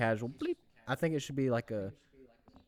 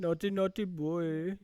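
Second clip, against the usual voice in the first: slow, higher, louder sing-song scold; mock scolding; 7 semitones higher, 4 dB louder, slower than usual. Teasing friend Eli, slow sing-song scold. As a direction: wag a finger at a naughty boy.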